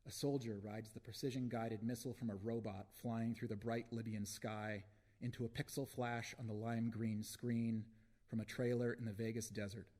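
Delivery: measured, deliberate spoken-word delivery; poem reading. Acted. Poet reads a war poem to an audience, measured recital. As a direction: recite it phrase by phrase with weighty pauses.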